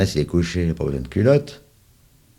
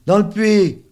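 urgent shout; 7 dB louder, slower than usual. A narrator's reading. Urgent answer through the window.

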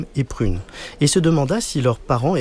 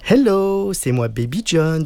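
calling hello; 6 semitones higher, slower than usual. A narrator's reading. Boy arriving home with a friend, calling out. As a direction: sing out a showy greeting.

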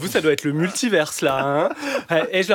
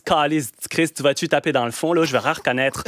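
put-on Quebec accent. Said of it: "je pars à Montréal cet été".

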